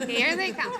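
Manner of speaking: laughing loudly through the words. Real, not acted. Laughing as the other group walks toward her. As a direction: burst out laughing as they walk over.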